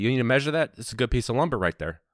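put-on Chicago lumber-yard talk; lightly hammed-up suburban Chicago accent. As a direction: imitate a keen Chicago hardware regular. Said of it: "I don't know what that accent, uh, kinda Chicago".

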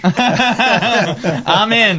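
high, excited, through laughter; eager jumping in. Real, not acted. Host jokingly volunteering to move countries, eager and laughing.

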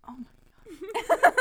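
slow, high, loud laughing exclamation; laughing disbelief. Real, not acted. Reader reacting to the fan story, laughing in disbelief. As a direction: stretch it out through laughter.

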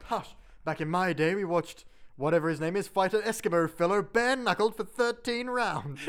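a hint of old Mister Burns reminiscing; lightly voiced old-timer. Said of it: "Mister Burns is all like".

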